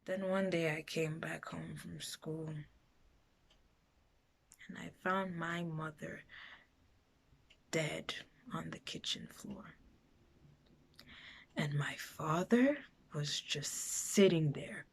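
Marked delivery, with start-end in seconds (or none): 0.0-9.7 quiet and subdued, barely getting it out; hushed grief. Acted. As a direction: say it very softly, with long pauses. Recalls finding mother dead.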